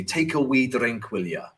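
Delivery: mild mock Scottish accent; imitated Scottish drinker, lightly done. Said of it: "that is my Scottish accent".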